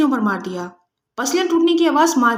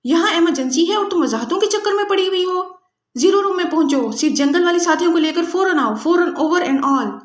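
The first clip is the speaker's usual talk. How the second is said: ferocious snap; 5 semitones higher than usual. Acted. Julia, posing as the boss, savages a subordinate by radio. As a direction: bite her head off over the radio. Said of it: "پھاڑ کھانے والے لہجے میں کہا".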